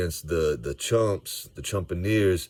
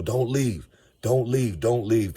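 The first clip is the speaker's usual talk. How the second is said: higher, urgent plea to leaving fans; pleading with fans; 4 semitones higher, slower than usual. Retold or imitated. Fan urging leaving crowd to stay, pleading. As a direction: beg them to stay in their seats. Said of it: "he was telling people".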